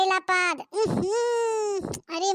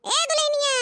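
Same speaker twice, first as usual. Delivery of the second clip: calling out; 7 semitones higher than usual. Acted. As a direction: call the bride from another room, pitched up. Mother-in-law calls for daughter-in-law.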